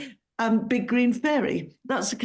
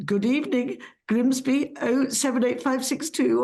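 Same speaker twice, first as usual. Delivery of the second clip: dad's telephone voice. Retold or imitated. Northern dad answering the phone, in a formal telephone voice. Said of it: "a telephone voice".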